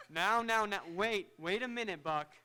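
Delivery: embarrassed doctor laughing off compliments; laughing protest. Acted. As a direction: chuckle and brush off the flattery.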